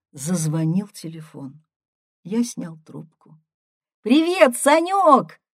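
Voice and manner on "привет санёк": high, loud phone hello; shouted greeting. A narrator's reading. Sister calling from the capital, shouting hello. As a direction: call out brightly down the line, pitched way up. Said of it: "крикнула Ирка".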